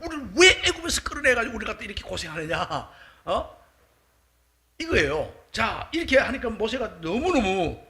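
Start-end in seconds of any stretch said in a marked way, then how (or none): 0.0-3.6 imitating an aggrieved crowd, higher-pitched; mock resentful protest, without real weeping; resentful complaint. Israelites blaming Moses for their hardship, acted resentful complaint. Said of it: "원망하면서 원통해서 우는 거예요".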